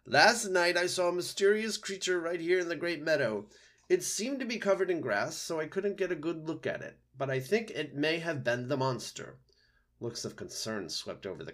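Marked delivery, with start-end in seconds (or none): 0.0-9.4 high-pitched owl making an announcement; owl Swooper, alarmed. A narrator's reading. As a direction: report the sighting in a raised owl voice.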